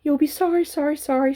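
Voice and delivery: goose warning. A narrator's reading. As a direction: stutter it like a fussy goose. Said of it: "said the goose".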